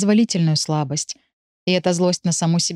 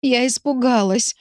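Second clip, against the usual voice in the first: higher, slow, crying out; tearful cry; 6 semitones higher than usual. Acted. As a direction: cry it out in tears. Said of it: "Слова срываются с губ вместе с криком".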